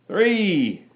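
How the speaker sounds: high shouted count. A narrator's reading. Men shouting the lash count. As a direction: bark out the number. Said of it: "the crawdads and pugilists shouted".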